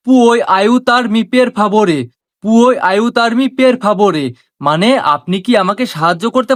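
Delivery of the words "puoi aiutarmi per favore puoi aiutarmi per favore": very slow, word by word Italian phrase; slow teaching demo. Shown as a demonstration. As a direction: spell it out slowly for learners. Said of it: "পুরোটা মিলিয়ে হচ্ছে". (ধীরে ধীরে শেখানোর উচ্চারণ)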